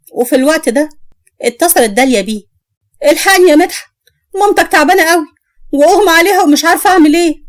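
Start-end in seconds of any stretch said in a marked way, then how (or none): 3.1-7.4 panicked call. Acted. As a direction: beg for help on the phone. Cousin calls in panic.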